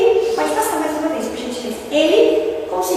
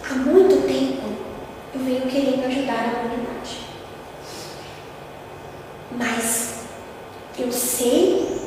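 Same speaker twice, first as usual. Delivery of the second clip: humble and sincere. Retold or imitated. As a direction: speak as a humble servant. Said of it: "a entonação da pergunta ... é totalmente diferente".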